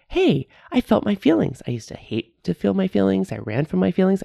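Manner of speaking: high, bright self-praise; proud excited. Retold or imitated. Proudly telling herself she felt her feelings, high and excited. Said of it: "Maybe you're like".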